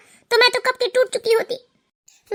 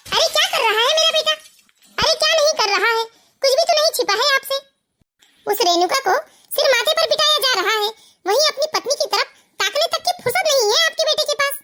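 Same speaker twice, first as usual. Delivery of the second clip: higher, indignant protest; heated complaint; 5 semitones higher than usual. Acted. Wife confronting mother-in-law about her husband, indignant.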